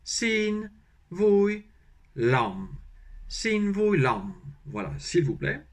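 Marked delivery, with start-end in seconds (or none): 0.0-4.3 sin and vui high, l'homme dropping; Vietnamese tones. Shown as a demonstration. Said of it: "Donc, ça fait".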